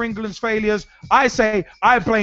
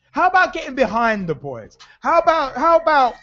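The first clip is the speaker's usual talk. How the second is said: exasperated rant; 6 semitones higher than usual. Real, not acted. Ranting at critics.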